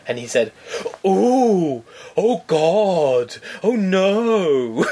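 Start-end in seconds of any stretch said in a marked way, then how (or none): 1.1-4.8 hammed-up, drawn-out wail of dismay; feigned shock and horror. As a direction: overact horror, each cry swooping from high. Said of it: "to full-on acting".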